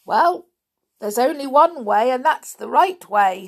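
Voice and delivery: a dim villager sure he's clever; lightly voiced smug villager; smug stupid. A narrator's reading.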